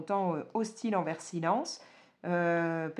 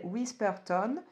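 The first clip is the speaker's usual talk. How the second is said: a clumsy English accent on Whisperton, Whisperton said as English by a French speaker; bad English accent; slower than usual. Shown as a demonstration. Reviewer apologizing to viewers, tries the town name in bad English accent. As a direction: Whisperton voiced in shaky schoolbook English, a bit embarrassed. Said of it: "mon accent anglais pourri".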